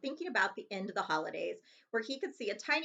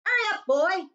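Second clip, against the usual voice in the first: much higher, louder bark; shouted; 10 semitones higher, 9 dB louder than usual. Acted. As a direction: yell impatiently from the kitchen. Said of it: "shouted Uncle Vernon".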